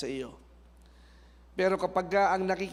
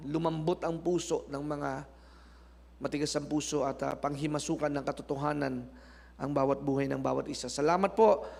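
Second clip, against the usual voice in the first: prayer; 3 semitones lower than usual. Acted. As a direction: pray it over the congregation. Closing prayer.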